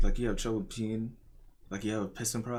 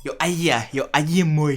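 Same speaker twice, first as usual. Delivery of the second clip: calling out; 5 semitones higher, 10 dB louder than usual. Real, not acted. Calling out to a friend.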